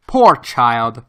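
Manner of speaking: a lightly voiced, gentle pity for the boy; genuine pity. A narrator's reading. Professor pitying his exhausted nephew, gentle pity. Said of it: "said in a genuine tone of pity".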